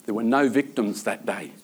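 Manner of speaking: quiet repeat. Acted. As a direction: let the line sink, hushed and settled. Preacher repeats the punchline quietly.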